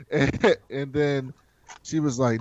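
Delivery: ordinary talk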